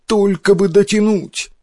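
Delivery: high, urgent plea; frightened sailors. A narrator's reading. Sailors repeat their hope as the storm hits, frightened. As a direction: cry out in alarm, voice lifted high. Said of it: "не на шутку испугались моряки".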